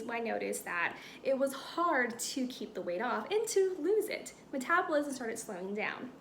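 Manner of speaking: reading a personal story aloud, lightly performed; storytelling monologue reading. Shown as a demonstration. Teacher demonstrating a monologue for acting students, light storytelling read. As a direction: tell it like a funny story to friends. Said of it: "I will start reading my monologue".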